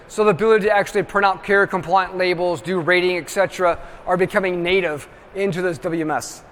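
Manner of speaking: talking while out of breath; short of breath after a long stretch. Real, not acted. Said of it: "Wow, I'm out of breath".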